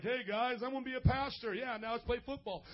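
the speaker imagining himself announcing it to his friends, lightly acted casual call; casual young speaker. The speaker telling his friends his plan, mock-casual announcement. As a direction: lightly mimic tossing out big news to the guys. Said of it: "sitting around one day like".

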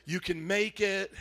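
slow, tender we love you; gentle, reassuring to a neighbor; tender encouragement. Shown as a demonstration. Pastor modeling a tender word for the neighbor. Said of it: "Look at your neighbor, say".

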